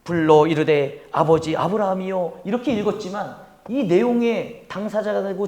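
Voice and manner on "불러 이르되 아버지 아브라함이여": polite reading. Retold or imitated. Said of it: "이렇게 정중하게".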